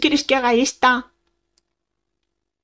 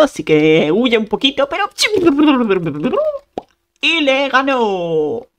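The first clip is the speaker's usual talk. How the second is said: playful play-by-play of the fight; mock sports commentary. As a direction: commentate like a match, drawing out the ending.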